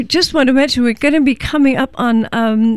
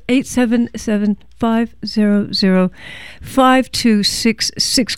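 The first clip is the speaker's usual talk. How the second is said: phone number read out slowly; slower repeat. Real, not acted. Host repeats the pledge number for listeners, slower. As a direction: say the digits slower, spaced in small groups. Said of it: "Let me say it slower".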